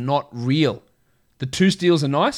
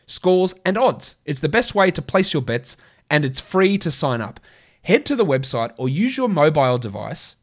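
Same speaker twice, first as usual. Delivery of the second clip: upbeat sponsor read, pitched up; 3 semitones higher than usual. Acted. Host reads the sponsor ad to listeners, upbeat ad voice. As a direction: sell it like a radio spot.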